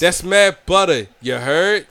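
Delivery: slow, drawn-out fake northern accent; imitating an up-north accent; mock up-north accent. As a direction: stretch it out in a bad up-north accent. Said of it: "It's just that your accent sucks".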